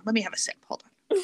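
talking around a sip; mid-sip, pausing to swallow; while sipping a drink. Real, not acted. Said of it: "let me, hold on".

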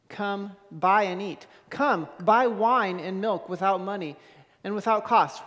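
measured, solemn reading of the passage; scripture reading. Acted. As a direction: read the prophet's words to the congregation. Reads Isaiah 55 aloud.

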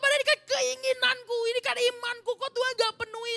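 high, loud, indignant protest; angry complaint. Retold or imitated. Student complaining to the pastor that God failed him, angry. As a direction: complain hotly, as if cheated by God. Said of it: "Dia marah".

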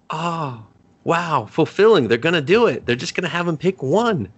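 mock underwhelmed. Mock reaction to predicted ending.

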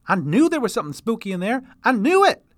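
put-on fast, high, loud spooked old-timer; old prospector. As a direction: blurt it like a jittery prospector. Chester speaks.

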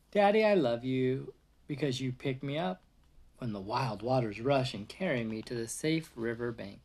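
gentle storybook read-aloud voice; reading to a child. Acted. Reading picture book to toddler.

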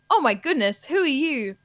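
radio ad character. Acted. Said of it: "two people in conversation".

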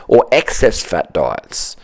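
slow conspiratorial whisper. Real, not acted. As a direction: breathe it out as a secret aside.

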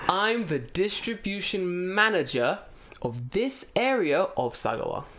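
slow deliberate restatement; slow clear repeat. Retold or imitated. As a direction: say it again slowly so it lands.

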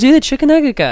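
imitating the mom.

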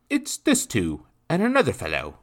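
high, loud rough coachman voice; rustic coachman calling out; gruff coachman. A narrator's reading.

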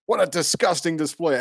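mock disgusted announcer; hammed-up sneering call; Joe Buck. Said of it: "Joe Buck and being like".

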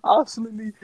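loud, high-pitched talk through laughter; high, helplessly amused storytelling; cracking up. Real, not acted. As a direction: push the story out while laughing hard. Cracking up while telling school memory.

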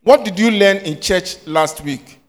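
What drawn out slowly and pressed; slow, pointed question. Shown as a demonstration. Teacher repeating her question to the class slowly and pointedly. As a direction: ask it again slowly, leaning on What. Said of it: "What is this?".

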